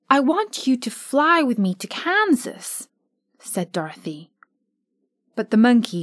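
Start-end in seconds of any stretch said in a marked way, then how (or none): 0.1-2.9 put-on pleading homesick girl; high, longing child; higher little girl voice. Dorothy tells friends she longs for Kansas, pleading.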